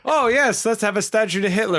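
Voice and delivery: high, sarcastic oh yes; mock the idea with fake cheer; sarcastic mock enthusiasm. Friend mocking the museum lore with sarcastic cheer.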